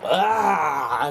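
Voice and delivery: long drawn-out imitation growl; mock raging roar. YouTuber imitating a crazed Rasputin, mock roar.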